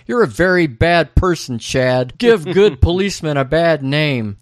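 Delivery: lightly acted earnest scolding; Andy. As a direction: raise the pitch a little for a mock telling-off. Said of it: "Andy turns to Chad and says".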